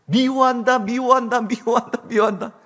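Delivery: high repeated call, steadily fading; mountain echo. Acted. Mountain throws the hateful shout back, fading echo. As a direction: imitate an echo dying away. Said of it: "산에서 메아리가 쳐가지고요".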